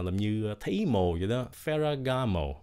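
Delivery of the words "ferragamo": Ferragamo ending on a falling mo. Shown as a demonstration. Teacher models the falling last syllable of Ferragamo. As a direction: drop on the last mo. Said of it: "Như xuống giọng nha".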